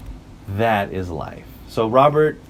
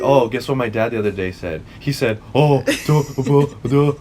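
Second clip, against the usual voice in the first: loud dopey caveman grunts; caveman dad impression; 2 semitones higher, 4 dB louder than usual. Girls mocking their dads as loud dumb cavemen. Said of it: "you make us sound like cavemen".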